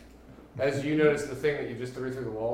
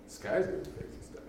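whisper; 6 semitones lower, 7 dB quieter than usual. Real, not acted. Repeats line whispering.

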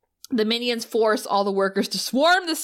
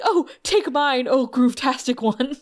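groveling minion; 3 semitones higher than usual. Retold or imitated.

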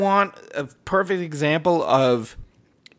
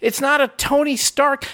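higher, fired-up rant about the movie; heated rant; 6 semitones higher than usual. Retold or imitated. To his wife over burritos, a high heated rant. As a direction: rant it out, worked up. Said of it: "I was like".

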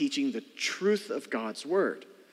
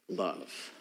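whispered, much softer; 10 semitones lower, 10 dB quieter than usual. Acted. Pastor revealing the most important gift, whispered. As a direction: breathe the word like a secret. Hushed climactic key word.

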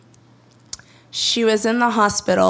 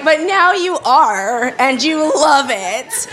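cheeky comeback; 5 semitones higher, 4 dB louder, slower than usual. Retold or imitated. Cheeky reply to strangers.

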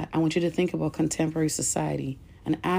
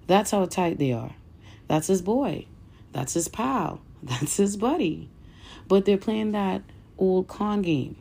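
emphatic oratory with punched phrase openings; impassioned speech reading. Acted. Reader delivering Malcolm X's speech to listeners, impassioned oratory. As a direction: read it like a rousing political speech, pausing between phrases.

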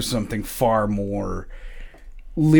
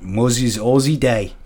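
badly faked Australian accent; bad Aussie accent. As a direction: put on a clumsy Australian accent. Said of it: "put on my bad Aussie accent".

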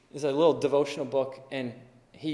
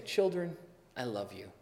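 put-on softer, held-back calm to the kids; forced calm to kids; 6 semitones lower, 12 dB quieter than usual. Parent to kids who didn't clean, mock calm. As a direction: bite back the frustration and speak gently.

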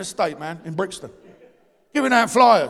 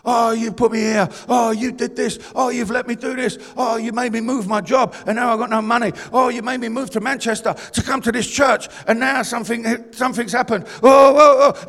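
whiny string of grumbles; mock complaining; 3 dB louder than usual. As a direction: imitate people moaning at God. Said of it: "they start complaining".

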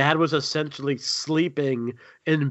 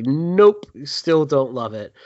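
emphatic refusal; 2 semitones higher, 4 dB louder, slower than usual. Retold or imitated. Acts out own yearly verdict.

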